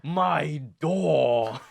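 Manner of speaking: slow, hammed-up pained customer voice; mock customer biting door. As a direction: drag it out, mock pain in the tooth. Mock Eve biting doorknob.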